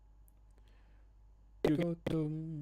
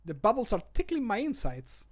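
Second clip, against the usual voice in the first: character voice line; 6 semitones higher than usual. Acted. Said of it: "when he's drinking the ale".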